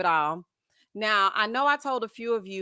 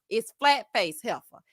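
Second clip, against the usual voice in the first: "flat-faced" drawn out and punched; slow down and hit "flat-faced" as the correction; stress on flat-faced; slower than usual. Shown as a demonstration. Host correcting Jacob's wording, stress on "flat-faced". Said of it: "it's not just heifer".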